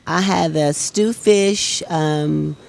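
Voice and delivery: said through a big smile. Real, not acted. Diner telling the host what she ate, smiling. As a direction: list it with a real smile in the voice. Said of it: "you said that with a big smile on your face".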